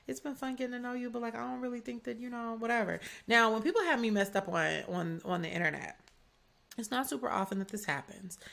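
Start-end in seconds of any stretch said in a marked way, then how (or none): 0.1-3.0 boilerplate breakup text. Retold or imitated. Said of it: "but it's just like".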